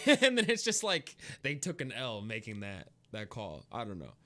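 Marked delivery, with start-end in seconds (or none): 0.0-1.2 laughing. Real, not acted. Laughing at the bad design choice.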